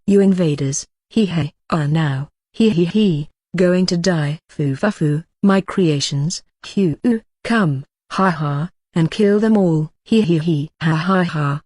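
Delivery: villain speech broken by cackles; maniacal laughing. Acted. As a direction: cackle through every word like a madman. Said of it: "Too much laughing".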